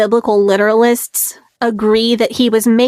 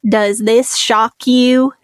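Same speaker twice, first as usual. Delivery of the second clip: movie quote; much slower than usual. Retold or imitated. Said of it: "looks straight into the camera and says".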